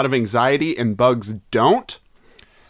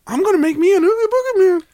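gleeful villain; much faster than usual. Pretend.

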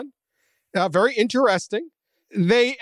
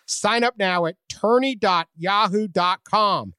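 ad read; 3 semitones higher than usual. Acted. Ad call to action.

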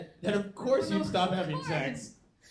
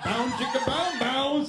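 high louder chicka bound noise; mock funk riff; 8 semitones higher, 8 dB louder, slower than usual. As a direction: imitate the droid's silly funk noise. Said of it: "he just made a porn noise".

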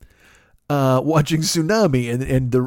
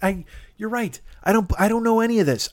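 sarcastic; 7 semitones higher than usual. Retold or imitated. Mocking reply to critics.

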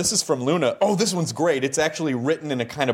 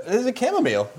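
much higher, hammed-up perfume-ad voice; mock perfume advert; 10 semitones higher, faster than usual. Interviewer describing David's smell, mock perfume-ad voice. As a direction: sell the scent like a perfume advert.

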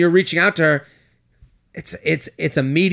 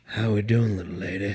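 put-on old-fashioned cowboy; 7 semitones lower, 7 dB quieter than usual. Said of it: "He does have a very old-fashioned voice".

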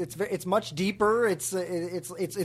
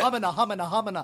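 humming the word humana dreamily; lost in your own voice; mock mumbling host; faster than usual. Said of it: "you don't hear yourself literally going".

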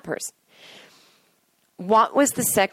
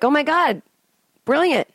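higher, louder gasp of awe; amazed audience; 8 semitones higher, 4 dB louder than usual. Retold or imitated. Viewers reacting to the drunk confession, higher and amazed. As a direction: gasp in admiration. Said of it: "And you're like".

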